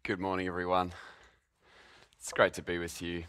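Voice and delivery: usual speaking voice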